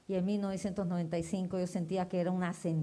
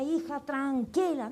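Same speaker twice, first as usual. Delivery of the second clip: calming father; 7 semitones higher, slower than usual. Retold or imitated. Father calming daughter, voiced.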